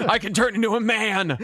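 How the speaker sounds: mascot voice breaking into laughter; cereal mascot, laughing. Acted. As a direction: laugh through the mascot line. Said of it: "a cereal mascot".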